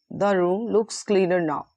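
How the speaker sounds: measured stresses, "now" falling at the end; stressed falling statement. Shown as a demonstration. Teacher repeats the model sentence, falling on "now". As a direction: bring the pitch down on "now". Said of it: "following intonation and stress".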